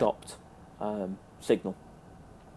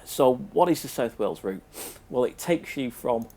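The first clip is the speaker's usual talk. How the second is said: sniffling; 2 semitones higher than usual. Real, not acted. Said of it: "you're gonna have to excuse the sniffling".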